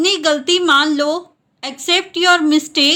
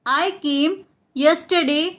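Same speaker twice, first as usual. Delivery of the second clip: split repeat. Shown as a demonstration. Teacher repeats the translation for learners, split in two. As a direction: pause between "I came" and "yesterday".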